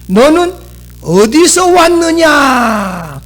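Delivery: preacher reading Pilate's demand slowly; slow emphatic question. Acted. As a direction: ask it slowly with weight. Modern translation read out.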